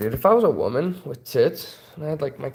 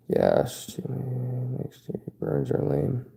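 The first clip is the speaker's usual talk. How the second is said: slow, drawn-out cartoon dad voice; lazy cartoon dad drawl; Peter Griffin impression; 6 dB quieter, much slower than usual. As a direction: do your best Peter Griffin, slowly. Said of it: "my best impression of Peter Griffin".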